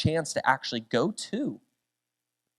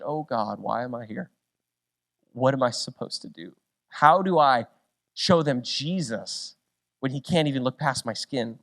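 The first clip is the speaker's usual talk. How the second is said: discouraged; 4 semitones lower, 4 dB quieter than usual. Retold or imitated. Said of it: "I felt so discouraged".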